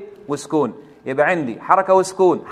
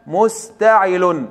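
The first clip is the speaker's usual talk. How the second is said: drawn-out syllable by syllable; slow teacher's spelling of مستعل; slow scansion; much slower than usual. Shown as a demonstration. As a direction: stretch the foot slowly for the student. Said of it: "التفعيلة الثالثة".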